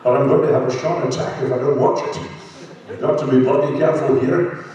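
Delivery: put-on Scottish accent with slushy s sounds; Sean Connery. Actor teasing the fan who asked, in a Scottish impression. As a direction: play it up as a lively Scottish star. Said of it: "Sean Connery".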